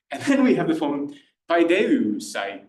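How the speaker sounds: slow, careful paideusai in the classical way; classical pronunciation. Shown as a demonstration. Teacher introducing the optative form, slow and careful. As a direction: lay out paideusai slowly and evenly. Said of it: "I'll do a classical pronunciation".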